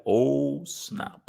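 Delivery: a soft, breathy "Oh, snap"; mock stunned whisper. Taunting fans, a hushed mock "Oh, snap". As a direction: whisper it like a caught-out rival. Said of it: "you will be like".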